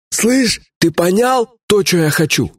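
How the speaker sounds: властный атаман. Acted. Атаман напирает на вождя.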